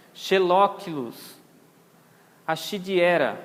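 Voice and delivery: SC in "xelóquilos" said as SH. Shown as a demonstration. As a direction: sound out "xelóquilos, achidiera" with SH. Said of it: "tem som de C H". (SC com som de CH)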